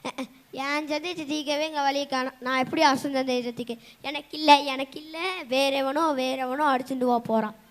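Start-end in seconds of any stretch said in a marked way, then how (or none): 4.0-4.6 loud, despairing cry of not for me; loud wail. Acted. Poor poet wails to himself about the lost prize, loud. Lamenting the prize goes elsewhere. 4.6-5.2 softer, deflated repeat; quiet despair. Acted. Poor poet sighs to himself about the lost prize, quietly. Lamenting the prize goes elsewhere.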